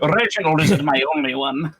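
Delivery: mock-posh assurance; posh accent. Shown as a demonstration. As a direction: insist in a put-on posh voice. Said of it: "I can do other posh accents".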